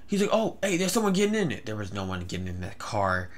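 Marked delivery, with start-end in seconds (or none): 0.3-1.6 higher-pitched crazy stranger; drugged stranger. Retold or imitated. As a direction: play the man on drugs, pitched up. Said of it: "either he was crazy or he was on".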